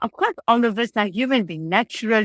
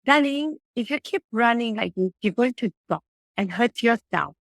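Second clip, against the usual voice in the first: gentle explaining. Shown as a demonstration. Teacher gently explaining to a running child. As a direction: coax the child kindly. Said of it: "imagine if you just tell them".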